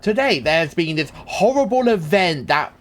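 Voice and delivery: a hint of a grave TV newsreader; mock news anchor. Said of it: "on the news where they're like".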